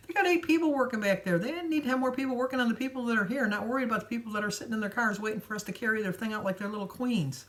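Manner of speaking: high, fired-up retold rant; indignant rant. Retelling how she told her friend off, high indignant rant. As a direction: let the outrage fly for the clerk to hear.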